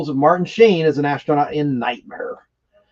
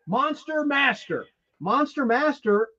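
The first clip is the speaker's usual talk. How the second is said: eerie murmur; 8 semitones higher, 7 dB quieter, slower than usual. Retold or imitated. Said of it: "I'm gonna do an impersonation".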